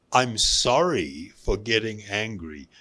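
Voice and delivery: usual speaking voice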